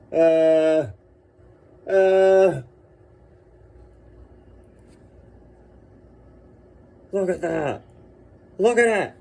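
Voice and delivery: high loud gasps of awe; awed squeals. Real, not acted. Admiring the badge up close, squealing. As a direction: squeal at how beautiful it is. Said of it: "that joyous reaction was me".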